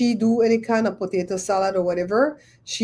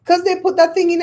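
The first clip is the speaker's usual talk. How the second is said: retold answer; 9 semitones higher, 5 dB louder, faster than usual. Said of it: "And they're like".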